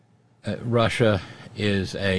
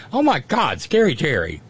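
laughing reaction; 8 semitones higher, 5 dB louder than usual. Real, not acted. Reacting to listener joke.

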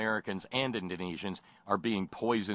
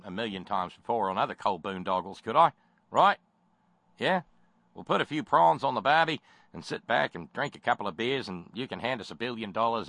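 a lightly put-on Australian accent, fast; mock the Aussie coal man in a hammy Australian accent; terrible Australian accent; 2 semitones lower, faster than usual. Mocking the Aussie coal pitchman to a hearings panel, light Australian accent. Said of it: "my terrible Australian accent".

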